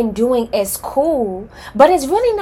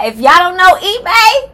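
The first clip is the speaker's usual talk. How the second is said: laughing; 9 semitones higher, 8 dB louder than usual. Real, not acted. Laughing at herself.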